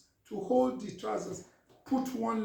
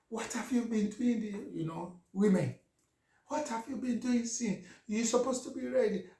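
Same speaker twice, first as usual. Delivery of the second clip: furious wife; 4 semitones higher than usual. Retold or imitated. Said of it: "So she was so furious".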